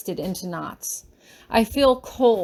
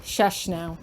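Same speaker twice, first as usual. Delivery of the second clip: comforting; 4 semitones lower than usual. Acted. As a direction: hush her gently like a worried child. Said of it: "she says comfortingly".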